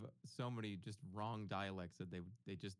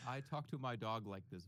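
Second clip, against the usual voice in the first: dog-talk voice. Shown as a demonstration.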